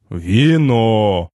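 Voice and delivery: put-on solemn old man proclaiming; wise old sage. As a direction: announce it grandly, old and slow. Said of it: "торжественно провозгласили".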